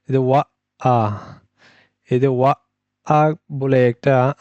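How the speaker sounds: teacher stressing the glottal stop. Shown as a demonstration. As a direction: stop the voice briefly between ওয়া and আ. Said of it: "ধাক্কা দিল".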